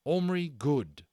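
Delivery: loud, slow and proud. A narrator's reading. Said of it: "he said loudly".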